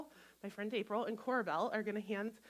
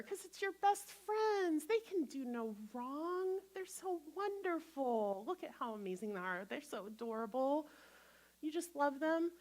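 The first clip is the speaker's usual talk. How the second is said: doting on friend; 2 semitones higher than usual. Shown as a demonstration. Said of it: "That's how you get to speak to yourself".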